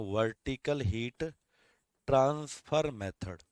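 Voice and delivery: dictation. Shown as a demonstration. Repeating the term for notes.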